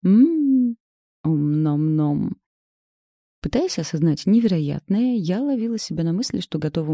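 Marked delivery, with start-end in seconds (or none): 0.0-2.4 eating noises. Acted. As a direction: savour it loudly like a hungry cat. Daughter greedily eating cucumber. (довольное чавканье)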